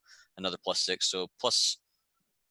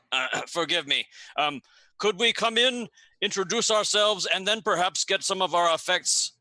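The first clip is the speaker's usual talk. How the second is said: put-on higher, flustered Garundi accent; a lightly put-on Garundi accent, pitched up; poor Garundi accent; 4 semitones higher than usual. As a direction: apologise to the guards in a bad Garundi accent. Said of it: "In a poor Garundi accent".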